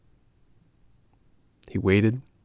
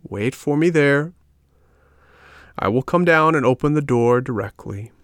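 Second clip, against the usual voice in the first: snail voice; 5 semitones higher than usual. A narrator's reading. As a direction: speak high and unhurried. Snail speaks.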